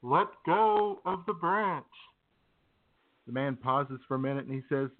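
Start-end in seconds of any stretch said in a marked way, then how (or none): 0.0-1.9 slow, grand command from above; a hint of a godlike voice; God telling the climber to let go, slow; majestic voice. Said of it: "The voice says".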